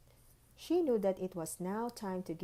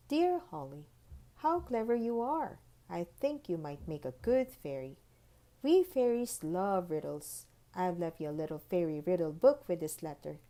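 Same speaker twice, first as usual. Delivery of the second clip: sweet fairy voice, light and bright; fairy letter voice; 2 semitones higher, 3 dB louder than usual. Acted. Tooth Fairy's letter read aloud.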